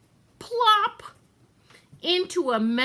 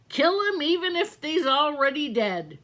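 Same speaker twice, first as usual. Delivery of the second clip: maid's voice; 5 semitones higher, 3 dB louder than usual. Acted. Maid repeats cook's motto.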